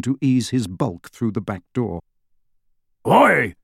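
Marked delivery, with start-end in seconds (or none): 3.1-3.6 indignant shout, higher and louder. Acted. Hagrid objecting as Lupin grabs Harry, indignant. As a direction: protest with a loud, rising yell. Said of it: "said Hagrid indignantly".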